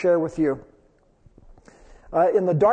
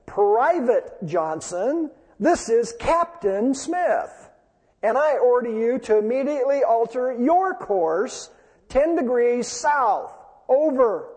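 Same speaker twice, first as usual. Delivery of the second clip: storyteller's mock shout; 4 semitones higher than usual. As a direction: pitch it up and drag each word like an angry command. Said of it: "the captain shouted back over the radio".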